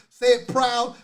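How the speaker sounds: rally the listeners to shout it; loud, proud chant. Real, not acted. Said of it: "Say it loud".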